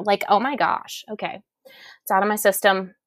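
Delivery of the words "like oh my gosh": put-on Valley girl. Shown as a demonstration. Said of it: "that just popped out".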